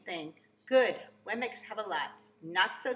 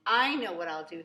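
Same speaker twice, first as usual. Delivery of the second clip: declaring; 7 dB louder than usual. A narrator's reading. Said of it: "he declared".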